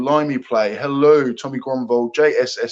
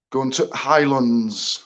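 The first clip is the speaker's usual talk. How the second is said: put-on slow, slipped-in northern English accent; a hint of northern English accent; slower than usual. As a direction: drift briefly into a northern accent. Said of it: "said that in a northern accent".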